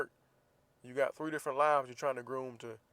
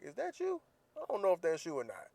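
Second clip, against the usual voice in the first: mock unsure; 5 semitones higher than usual. Mock squinting at wife.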